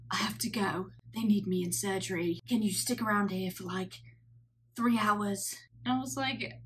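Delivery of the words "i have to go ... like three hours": imitating a South African surgeon's accent; a light South African accent, half-hearted; mock South African accent, lightly done. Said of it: "doing his accent".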